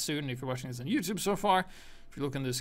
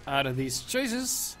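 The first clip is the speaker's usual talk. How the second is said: exasperated outburst; 6 semitones higher, 5 dB louder than usual. Retold or imitated. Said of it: "So now I was like".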